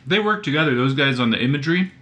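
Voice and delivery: talking with a mouth full. Real, not acted. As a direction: speak through a bite of sandwich. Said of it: "I'm eating a sandwich".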